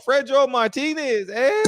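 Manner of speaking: playful put-on Spanish voice. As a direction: ham up the Spanish accent on the name. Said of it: "How did my Spanish voice go?".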